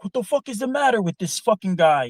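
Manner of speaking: an exasperated co-worker snapping; imitated angry outburst. Co-worker finally loses it at the talker, exasperated mock shout. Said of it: "he finally lost it on Ron".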